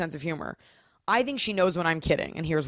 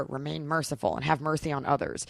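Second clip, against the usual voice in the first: solemn reminder; 2 semitones lower, 3 dB quieter than usual. Retold or imitated. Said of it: "I have to always remind her".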